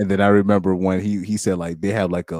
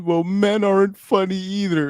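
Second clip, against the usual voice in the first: high-pitched mocking quote; mock indignant comeback; 11 semitones higher than usual. Mimicking women in the comments, high mock indignation. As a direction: put on a high voice to mimic the retort.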